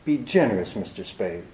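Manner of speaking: understated mimicry of her pleading; lightly mocking imitation of a throbbing appeal; mock throbbing plea. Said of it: "that throb you get into your voice".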